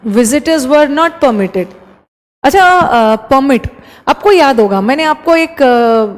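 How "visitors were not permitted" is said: not leaned on, slow; stress on not. Shown as a demonstration. Teacher rereading the phrase, stressing not. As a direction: slowly read Visitors were not permitted, hitting not. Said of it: "rereads phrase".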